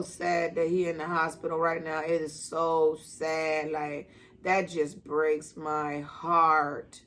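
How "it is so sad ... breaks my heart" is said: slow, sad, breaking heart; choked up. Real, not acted. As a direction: let it drag, heavy with sorrow. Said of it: "getting a little choked up".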